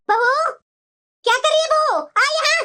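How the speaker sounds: mother-in-law barking for her daughter-in-law; stern call. Acted. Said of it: "इसी तरह से कड़क आवाज में बोला कीजिए".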